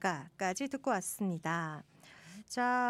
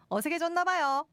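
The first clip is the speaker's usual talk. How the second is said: high climbing Gyeongsang intonation; Gyeongsang lilt; 7 semitones higher, 3 dB louder than usual. Pretend. Host excusing her rusty dialect, high Gyeongsang lilt.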